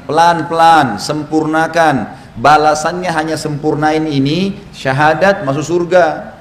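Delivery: drawn-out, unhurried teaching delivery; slow, deliberate urging. Shown as a demonstration. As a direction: stretch it out slowly, urging patience. Menekankan wudu yang tidak buru-buru. (pelan, ditarik panjang, penuh penekanan)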